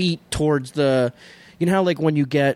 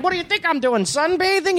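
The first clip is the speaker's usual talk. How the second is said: much higher, incredulous comeback; mock sarcastic retort. Retelling a survivor's reply to his rescuer, mock incredulous. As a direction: imitate a smart-aleck snapping back. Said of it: "I looked at the guy like".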